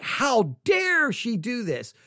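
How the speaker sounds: slow mock indignation; fired-up critics. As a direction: imitate offended people, stretching out the protest. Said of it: "all fired up".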